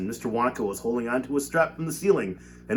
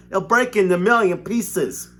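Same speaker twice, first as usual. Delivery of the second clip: panicked shout; 9 semitones higher, 7 dB louder than usual. A narrator's reading. Grandpa Joe panicking.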